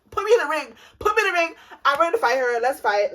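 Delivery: mock fighting talk. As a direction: pump yourself up for a fight. Ready to fight the other girl.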